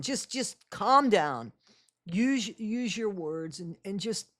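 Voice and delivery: mock calm parent, fading to near silence; lightly voiced calm parent talking a kid down; gentle questioning. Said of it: "couldn't see her doing that in that voice".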